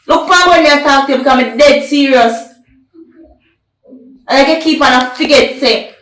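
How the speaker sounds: loud, hard scolding, jabbing every line; angry scolding. Acted. Jealous man scolds his woman, loud and angry. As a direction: lay down the law, fuming. Jealous partner lays down rules.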